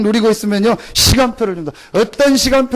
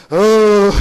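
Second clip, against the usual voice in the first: curt, louder "어이" like a disgruntled partner; annoyed grunt; 5 dB louder, much slower than usual. Retold or imitated. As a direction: snap "어이" at a partner. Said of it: "얼마나 듣는 사람 기분 나쁜지". (배드민턴 파트너가 못마땅하게 내뱉는 "어이")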